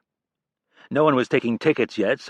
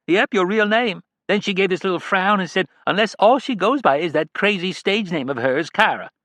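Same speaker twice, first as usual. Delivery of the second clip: much higher, kindly caregiver voice; caring nurse; 10 semitones higher, 4 dB louder than usual. A narrator's reading. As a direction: gently warn the daughter not to hope too much. Nurse Janine voiced by narrator.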